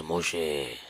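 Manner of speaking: low, drawn-out call of a name; God calling. Acted. God calling Moses by name, low and slow. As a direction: call the name slowly from far above.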